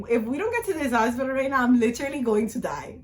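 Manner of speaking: urgent, as if freaking out on the way; retold panic. Woman in labor on the hospital drive, retold panic. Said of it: "I'm hyperventilating".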